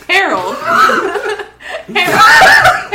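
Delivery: high, loud call into the woods. Acted. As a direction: call the name, rising to a shriek. Calling a lost friend.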